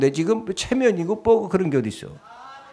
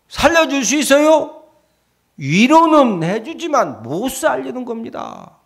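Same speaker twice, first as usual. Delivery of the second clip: raised, loud, insistent preaching; preaching at full force; 7 semitones higher, 4 dB louder than usual. Acted. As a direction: drive it home to the congregation. (목소리를 높여 힘차게 설교)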